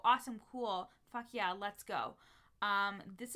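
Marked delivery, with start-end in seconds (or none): 0.0-2.1 excited. Retold or imitated. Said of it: "And I go".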